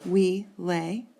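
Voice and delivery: "We lay" as two separate beats; syllable-pair scansion. Shown as a demonstration. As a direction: sound out "We ... lay" as one foot. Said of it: "another two syllables there".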